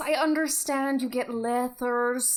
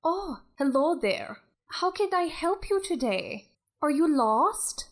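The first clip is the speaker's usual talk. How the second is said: Scottish Beth; 3 semitones higher than usual. Acted. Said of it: "this is a very Scottish Beth".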